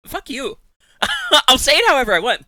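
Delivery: high, fast, laughing protest; playful defiant squeal; laughing defiance. Real, not acted. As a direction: giggle it out defiantly at chat.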